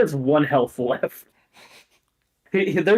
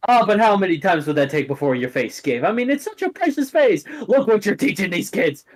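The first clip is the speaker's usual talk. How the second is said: a mother nags her reckless son; scolding mom; 2 semitones higher than usual. Acted.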